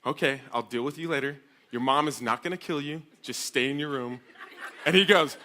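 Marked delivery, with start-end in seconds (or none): 0.0-4.2 even, unhurried father's voice; dad calmly taking charge on the phone. Retold or imitated. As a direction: settle the panic with level reassurance. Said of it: "he very calmly says".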